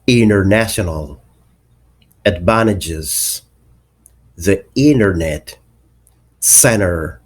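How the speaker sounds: "international, advantages, the internet, center" with no T after N; silent T. Shown as a demonstration. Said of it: "T becomes silent".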